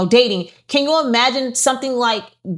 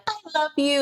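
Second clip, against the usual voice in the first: sweet mood swing; 6 semitones higher, 6 dB quieter than usual. Retold or imitated. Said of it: "one moment I'm like".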